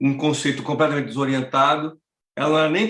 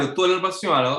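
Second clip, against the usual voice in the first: ordinary talk, nothing marked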